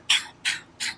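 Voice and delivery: voiceless "pow" sounds; imitated gunshots. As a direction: mimic the shots in short unvoiced bursts. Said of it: "I just hear the gunshot".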